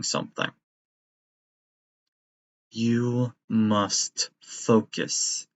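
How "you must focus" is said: slow menacing order. Acted. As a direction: press the words slowly. Villain command.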